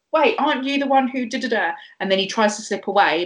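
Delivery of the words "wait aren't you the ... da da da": higher-pitched, imitated suspicion; lightly acted pointed question; imagined accuser. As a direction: ask it like a bystander spotting someone. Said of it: "someone was like".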